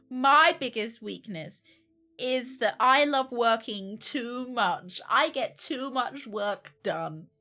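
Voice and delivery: slow, drawn-out seductive job-interview voice; mock seductive answer. Applicant answering the biggest-weakness question, slow mock seductive. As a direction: purr the weakness out slowly to charm the interviewer. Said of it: "That's a seductive voice".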